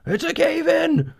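very high panicked shriek; terrified shriek. Acted. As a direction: scream the warning in terror. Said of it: "the men shrieked".

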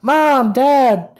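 put-on high, whiny little kid. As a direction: beg like a bratty child. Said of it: "Peyton and Eli are running around".

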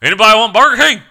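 high, loud goofy voice; dopey guy voice. Retold or imitated. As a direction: pop in like a cheerful goof. Voicing coworker popping in.

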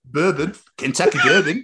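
put-on "Kentucky bourbon" in a light Australian accent. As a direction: say "bourbon" like an Aussie. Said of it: "say bourbon in an Australian accent again".

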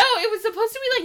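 fast laughing protest. Real, not acted. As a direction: giggle out the denial. Laughs through denial.

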